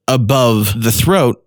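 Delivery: ordinary delivery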